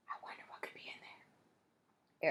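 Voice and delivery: slow curious whisper; hushed wondering. A narrator's reading. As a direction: whisper it slowly while spying. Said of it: "Eric whispered".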